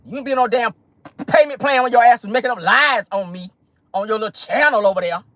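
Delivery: mock dismissive retort; a rapper. The rapper refusing Tasha's plea, mock dismissive. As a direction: shut down the plea, lightly acted. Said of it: "Cardi was like".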